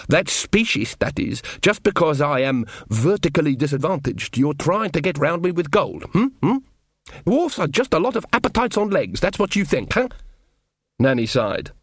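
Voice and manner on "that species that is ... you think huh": high, huffy dwarf complaint; indignant dwarf. Acted. Dwarf accusing Nanny of bribing him, high and huffy. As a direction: bristle at the insult, higher.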